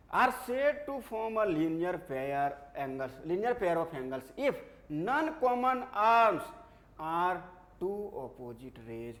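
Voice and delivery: very slow definition dictation. Real, not acted. Teacher dictates linear pair definition to class, slow dictation. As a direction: dictate it word by word, drawn out for note-takers.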